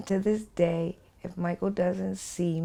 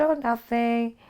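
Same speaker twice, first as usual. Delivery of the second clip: sing-song; 6 semitones higher than usual. Retold or imitated. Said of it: "I'm still sing-songing with him".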